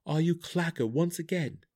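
high, earnest questioning voice; searching question. A narrator's reading. Drizzt asks the monster who he is, searching question. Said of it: "asked the Hook horror".

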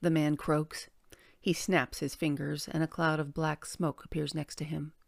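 measured, articulate audiobook read; story narration. A narrator's reading. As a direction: narrate a fantasy tale with deliberate phrasing. Reads a story aloud.

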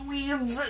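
"Weeds" said firmly, plural s clear; correcting a slip of the tongue; correction stress. Shown as a demonstration. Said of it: "I did not say weed".

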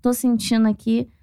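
hint of a pious friend leading prayer; a lightly voiced solemn prayer leader. Friend gathering everyone to pray for the upset fan, lightly solemn. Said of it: "falou desse jeito".

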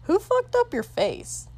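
high, loud brutal insult; crude loud jeer. Acted. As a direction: sneer it out cruelly. King insults prince's scar.

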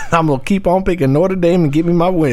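shouting through laughter; laughing shout. Real, not acted. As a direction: yell it while laughing.

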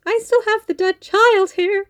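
mock yell. Doctor complaining to the mum, mock yelling. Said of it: "the doctor yelling at the mum".

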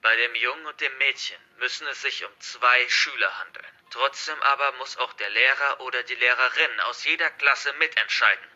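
lightly voiced hostage-taker, projected; forceful, threatening address to captives; menacing hacker villain. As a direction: declare it like a villain in control. Narrator voices the hacker's instructions.

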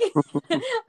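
high burst of laughter; high amused laugh. Real, not acted. Laughing at own comparison.

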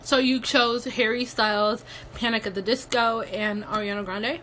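chewing ice while talking; words round a bite of ice; mouth full. Real, not acted. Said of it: "I am munching on some ice".

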